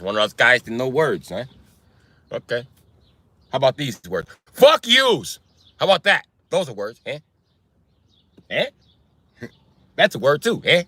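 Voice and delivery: needling Italian-American tough guy; taunting Italian wiseguy; Italian accent. Acted. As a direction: pick a fight in a mock Italian accent. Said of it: "even with an Italian accent".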